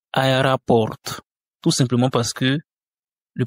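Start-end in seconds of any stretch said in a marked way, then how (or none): 0.1-1.0 Aéroport said Russian-style, "a-e-ra-PORT"; O pronounced A. Shown as a demonstration. Teacher shows how unstressed O sounds, O pronounced A. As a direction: open the first o of Aéroport to "a". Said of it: "se prononce A".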